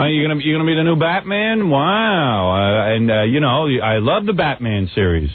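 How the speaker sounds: mock-gushing talk show host; Rosie O'Donnell. Imitated host fawning over the new Batman, mock gushing. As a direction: lightly parody an awestruck interviewer. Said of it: "she says".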